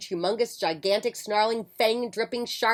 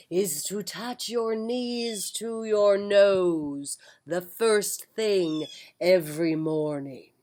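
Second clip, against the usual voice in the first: loud whisper; much slower than usual. Acted. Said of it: "he said in a loud whisper".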